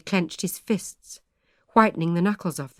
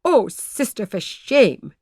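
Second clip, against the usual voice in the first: embarrassed protest; 3 semitones higher, 5 dB louder, slower than usual. A narrator's reading. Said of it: "said poor Mistress Sheldon, very red".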